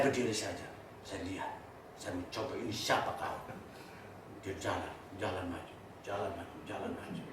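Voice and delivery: very soft, low storytelling; hushed suspense. Acted. Preacher telling listeners of an approaching shadow, hushed suspense. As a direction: creep through it, low and hushed.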